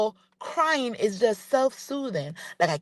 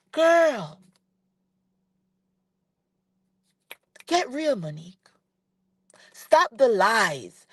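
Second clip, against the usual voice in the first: exasperated call-out; slower than usual. Real, not acted. Scolding the cast member.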